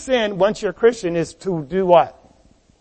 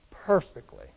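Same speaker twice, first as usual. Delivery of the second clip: quiet echo; 10 semitones lower, 10 dB quieter than usual. Acted. Preacher echoing his own word quietly.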